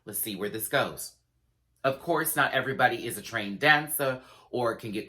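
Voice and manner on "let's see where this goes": sassy challenge. Retold or imitated. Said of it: "I said".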